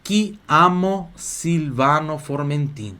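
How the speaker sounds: syllable-by-syllable Italian model; slow repeat-after-me. Shown as a demonstration. Teacher leading students repeating aloud, slow repeat-after-me. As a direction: spell out "mi chiamo Silvano Formentin" in slow, separated chunks. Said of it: "Repetindo em voz alta".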